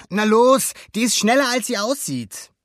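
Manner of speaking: high, loud, eager urging. A narrator's reading. Alberto hurries Luca onto the ramp, urging. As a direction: egg a hesitant friend on.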